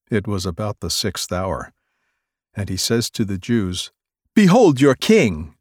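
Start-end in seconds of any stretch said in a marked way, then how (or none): 4.3-5.5 higher, louder declaration; loud raised behold; proclaiming. Acted. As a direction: present him mockingly to the crowd. Pilate presents Jesus.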